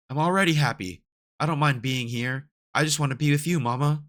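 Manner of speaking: put-on a child refusing to leave, lifted up; lightly voiced child.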